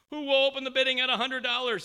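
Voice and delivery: loud, fast, high auctioneer call. Retold or imitated. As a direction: call out to the room for a bid. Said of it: "he asked".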